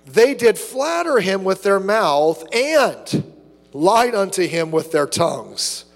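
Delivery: slow, solemn reading of the verse; slow scripture reading. Shown as a demonstration. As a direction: read it out weightily.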